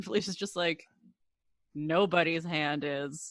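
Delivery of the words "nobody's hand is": mock deadpan voice, lower and quieter. Retelling Felicia's reply about the ice cream: imitating a deadpan reply. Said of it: "And it's so deadpan".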